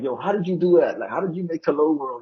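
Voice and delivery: mock-astonished, eager questions; amazed questioning. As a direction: act out an impressed newcomer asking. Voices an impressed beginner asking.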